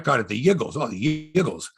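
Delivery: put-on Yiggles in a Philly accent. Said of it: "the Philadelphia accent".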